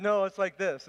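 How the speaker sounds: mock loud correction. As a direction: correct him firmly.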